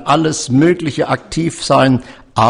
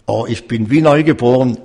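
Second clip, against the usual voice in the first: a touch louder, quicker "Oh, ich bin wie neugeboren"; joyful exclamation; 4 dB louder, faster than usual. Retold or imitated. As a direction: imitate the old man's newfound joy, lightly. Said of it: "Überall hat er gesagt".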